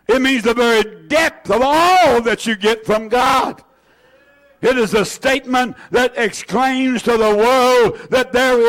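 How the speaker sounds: rising, ringing preacher's declaration; preaching at full force. Acted. Preacher declaring to the congregation, full force. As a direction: build it up and proclaim it to the church. Preaching climax, shouted lines.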